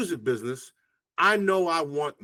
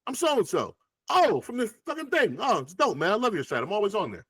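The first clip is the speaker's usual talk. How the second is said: acted small talk; 6 semitones higher than usual. Acted chat between writer and rapper.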